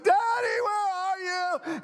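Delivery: high wailing cry, drawn out slow; a lost child sobbing for her father; lost little girl calling out in tears; crying for daddy. Retold or imitated. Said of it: "And she crumples".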